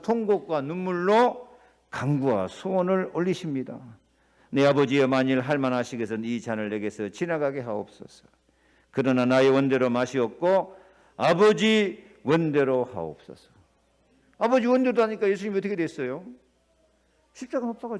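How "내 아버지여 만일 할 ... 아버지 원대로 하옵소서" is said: louder, pleading prayer; earnest prayer. Acted. Jesus praying in Gethsemane, earnest and pleading. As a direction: plead with the Father.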